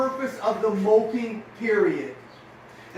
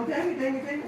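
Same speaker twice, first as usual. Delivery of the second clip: mock frustrated dang it; 5 semitones higher, faster than usual. Shown as a demonstration. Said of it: "Take three seconds and go".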